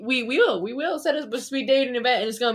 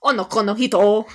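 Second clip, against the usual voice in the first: Onoko no hito in a playful anime voice, wrong first syllable; 7 dB louder than usual. Pretend. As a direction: Onoko no hito said loudly with a rising tune. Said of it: "I'll say 'em in my anime voice".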